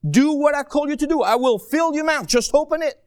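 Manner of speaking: voicing God's firm orders; God's commanding voice. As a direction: speak as God commanding boldly. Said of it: "What does he say to us".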